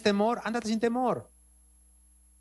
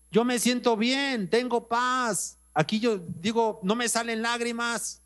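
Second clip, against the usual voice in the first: higher, slow voice of a peaceful sister; calm church sister; 6 semitones higher than usual. Retold or imitated. Sister tells her pastor she feels at peace, higher and slow. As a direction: lightly voice her calm, drawn out.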